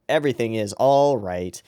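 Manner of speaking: dissociated flat voice. Retold or imitated. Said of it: "fully dissociating from himself".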